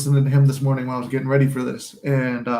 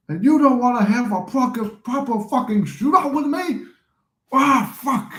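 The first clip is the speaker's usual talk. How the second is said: slow, high, louder Cockney gangster line; London gangster; 9 semitones higher, 3 dB louder than usual. Retold or imitated. Legend gangster line demanding a shootout, London accent. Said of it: "Where he's like".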